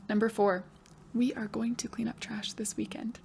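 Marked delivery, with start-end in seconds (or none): 1.1-3.2 put-on soft whispered child's reply; whispered student answer. Pretend pupil answering the teacher, whispered.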